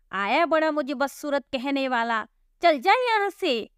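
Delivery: lightly voiced bitter girl, scolding; resentful sister. Divya blames her sister and drives Gabru away, resentful. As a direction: lash out in hurt anger.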